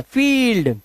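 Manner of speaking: "फील्ड" with a long ee vowel; pronunciation demo. Shown as a demonstration. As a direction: stretch the ई in "फील्ड" for learners. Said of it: "यहां पर ई का उच्चारण".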